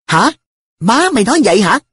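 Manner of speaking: high-pitched, incredulous question; astonished. A narrator's reading. Narrator checking what An's mother said, astonished. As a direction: echo it back in disbelief. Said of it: "Tôi trố mắt".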